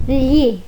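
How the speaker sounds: gli said like the lh in filho; Italian gli. Shown as a demonstration. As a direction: gli with a palatal l sound. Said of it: "deve ser lido como".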